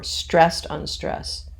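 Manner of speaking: slow "STRESSED unstressed", weight first; trochaic stress. Shown as a demonstration. Teacher names the reversed foot, trochaic stress. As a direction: draw out "stressed", then ease off on "unstressed". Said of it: "is the reverse".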